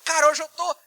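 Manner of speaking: mais alto e agudo, como quem conta uma novidade; empolgado. Acted. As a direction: solte a fala com empolgação, voz lá em cima. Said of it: "você se empolga na, na fala". (fala empolgada, aguda e forte)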